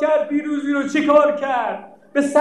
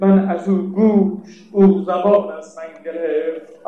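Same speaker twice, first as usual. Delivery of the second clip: slow chanted elegy, lower and grieving; mourning verse; 4 semitones lower, slower than usual. Acted. Preacher chanting a mourning poem for the congregation, slow and grieving. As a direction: lament the sister's farewell in verse.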